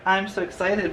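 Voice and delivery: imitating a flat robotic monotone; mock robot deadpan. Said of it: "that robotic ... voice".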